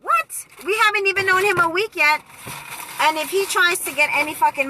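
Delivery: high, fast incredulous cry of disbelief; shocked friend. Retold or imitated. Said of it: "So Savon was like".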